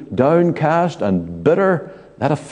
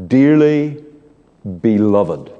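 pastoral; 2 semitones lower, slower than usual. Retold or imitated. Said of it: "very pastorally, as a shepherd".

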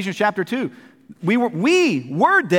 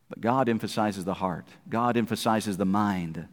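low emphasis; 10 semitones lower, 7 dB quieter than usual. Acted. Preacher contrasts God with religions.

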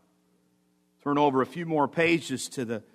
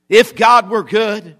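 loud, high, drawn-out taunt; mock accusation, pitched up and stretched; devil's challenge; 7 semitones higher, 11 dB louder, slower than usual. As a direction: throw out a slow, raised challenge.

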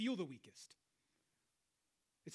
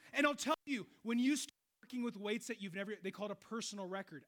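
ordinary delivery

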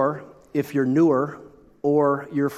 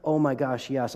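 mock coffee hater; 6 dB quieter than usual. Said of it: "Some people do that with coffee".

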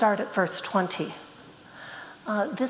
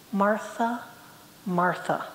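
calm, reassuring; 2 semitones lower, slower than usual. Shown as a demonstration. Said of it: "in a calm, reassuring voice".

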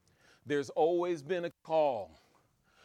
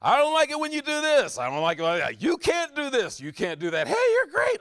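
mock critics; 9 semitones higher, 6 dB louder than usual. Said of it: "people tell me".

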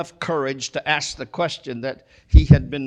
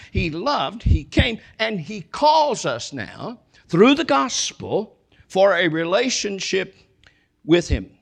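preaching climax; 3 semitones higher, 3 dB louder than usual. Acted.

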